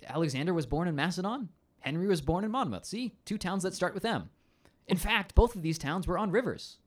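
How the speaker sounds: high, singsong Welsh commander lecturing; hammed-up Welsh rant. Welsh history lover proving his comparison, hammed-up Welsh accent. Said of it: "he goes off on this rant".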